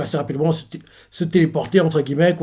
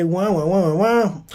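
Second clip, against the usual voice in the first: mock baby crying; 4 semitones higher, slower than usual. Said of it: "quand tu as pleuré".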